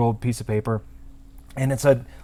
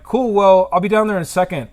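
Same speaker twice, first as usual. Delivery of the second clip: higher-pitched call down to a customer; retold friendly reply; 6 semitones higher, 4 dB louder than usual. Tattooist to waiting customer, higher-pitched reply. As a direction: answer him from upstairs, pitched up.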